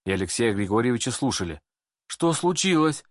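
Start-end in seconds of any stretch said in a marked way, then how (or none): 2.1-3.0 sleepy empress. A narrator's reading. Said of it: "спросила заспанная Елизавета".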